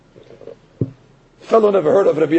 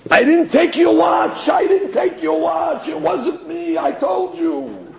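much higher, shouted denial; retold screaming denial, higher and shouted; 8 semitones higher than usual. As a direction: scream it out in panic. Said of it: "he starts to scream on top of his lungs".

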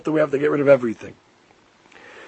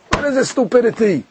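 scoffing; 4 semitones higher than usual. Retold or imitated. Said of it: "coming in a scoffing manner".

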